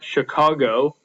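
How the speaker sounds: "Chicago" with the stress on its middle syllable; slow "Chicago", leaning on the CA. Shown as a demonstration. Teacher giving an example foot, middle stress in "Chicago". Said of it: "the stressed, uh, syllable is in the middle".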